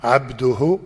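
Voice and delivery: slow, carefully separated syllables; measured dictation for someone to repeat. Shown as a demonstration. Prompting a new convert to repeat, very slow. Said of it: "say it very slowly".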